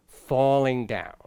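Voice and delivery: "falling down" slowly, settling downward; falling ending. Shown as a demonstration. Teacher demonstrating how phrases end, falling. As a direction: draw out "falling down" and let it drop. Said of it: "like I just did".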